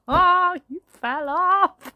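laughing. Acted. Mother laughing at a fallen child, giggling. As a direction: laugh through it despite yourself.

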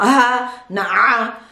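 ha and ah with the voice switched on; wrong demo of ha, vocal cords buzzing; wrong voiced ha. Shown as a demonstration. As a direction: voice the ha and ah instead of breathing them. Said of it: "No vocal cords are vibra".

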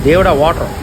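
loud startled exclamation; startled cry. Real, not acted. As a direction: gasp it out as water crashes. Water splashes over them. (ఆశ్చర్యంతో గట్టిగా అరుపు)

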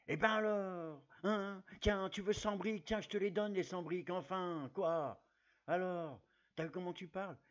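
a hint of Gérard Depardieu showing off; Gérard Depardieu impression. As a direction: ramble on like a tipsy Depardieu, mock. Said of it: "C'est parti pour Gérard Depardieu".

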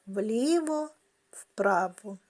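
вліво-вправо stretched slowly and evenly; slow pendulum rhythm; slow counting. Shown as a demonstration. Teacher keeps the clock exercise slow. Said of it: "треба рухати ним вліво-вправо".

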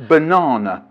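Banana as "buh-NAH-nuh"; English "banana". Retold or imitated. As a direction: deliver Banana as punchline, long English "ah". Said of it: "what we call that in England".

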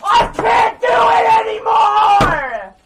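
furious screaming rant; raging gamer. Real, not acted. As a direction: scream in raw frustration.

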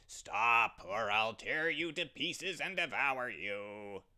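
loud threatening lion voice; lion's roar. Acted. The evil one as a lion roars at the ram. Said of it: "and roared".

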